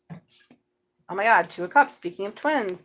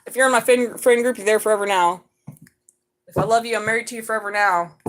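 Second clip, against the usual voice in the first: clingy Taurus; 7 dB louder than usual. Pretend. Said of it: "They're like".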